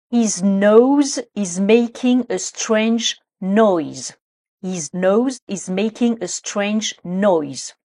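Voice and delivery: very slow model sentence, NOSE against NOISE; prononciation précise. Shown as a demonstration. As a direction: say NOSE and NOISE slowly and distinctly. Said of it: "il faut bien être précis, précise sur la prononciation". (lente diction soignée de « nose » et « noise »)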